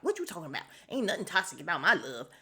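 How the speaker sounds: a touch of a sassy country grandma; lightly put-on Alabama old lady, quick; mild mock Southern auntie defending her love. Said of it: "she really did turn into a country old lady".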